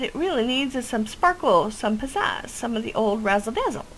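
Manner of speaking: a hint of a chatty old witch with a quirky accent; folksy witch voice. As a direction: boast about her brew like a village witch. Witch NPC continues.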